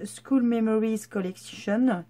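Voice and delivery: slow, careful English in a French accent; French speaker's attempt at an English accent; super English accent. Real, not acted. Vlogger reading out a paper collection's English name, French-accented English. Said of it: "avec mon super accent anglais".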